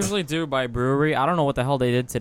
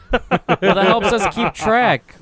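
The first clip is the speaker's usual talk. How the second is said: laughing; 6 semitones higher, 4 dB louder, much slower than usual. Real, not acted. Laughing while explaining.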